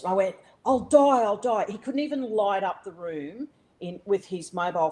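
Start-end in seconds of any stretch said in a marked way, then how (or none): 0.6-1.7 higher, urgent re-enacted protest; mock panicked plea; retold panic. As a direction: act out a frightened refusal, first burst louder. Retold panicked refusal during collapse.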